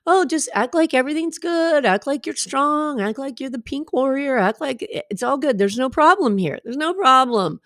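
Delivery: put-on positivity. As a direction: lightly act out "everything's fine". Acting out pretended everything-is-fine attitude.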